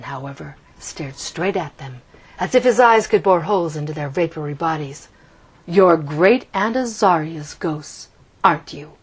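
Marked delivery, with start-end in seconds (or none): 5.7-8.9 matter-of-fact. Acted. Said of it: "he said matter-of-factly".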